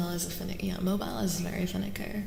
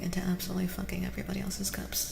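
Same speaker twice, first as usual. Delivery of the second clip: ASMR whisper. Acted. Reading Zero's cards, telling him to stop, whisper. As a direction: whisper the advice gently but firmly.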